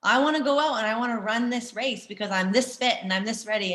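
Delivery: eager athlete. Retold or imitated. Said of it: "an athlete is like".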